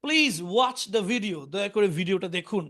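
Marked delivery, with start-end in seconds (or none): 0.0-1.4 very slow, spelled-out English for learners; slow model reading. Shown as a demonstration. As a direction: say each word slowly and clearly for students. Teacher's slow English model line. (ধীরে ধীরে স্পষ্ট করে পড়া)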